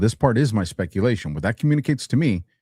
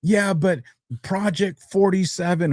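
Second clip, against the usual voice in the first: mock critic voice; 9 semitones higher than usual. Mocking critics' claims.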